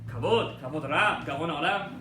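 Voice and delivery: loud respectful calls of greeting; crowd calling out. Retold or imitated. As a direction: hail him as he enters. Congregation greets rabbi loudly.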